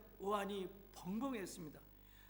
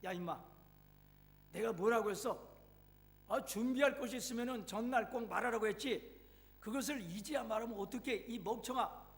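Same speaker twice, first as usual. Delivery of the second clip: angry scolding; 2 semitones higher than usual. Acted. Mother scolding her son on the phone, angrily. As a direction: bark at him, fed up and late. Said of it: "버럭 화를 내면서 한마디 쏘아붙였습니다".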